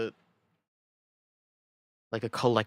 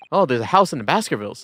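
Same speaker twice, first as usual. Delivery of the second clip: laughing; 5 semitones higher, 6 dB louder than usual. Real, not acted. Laughing at a game typo.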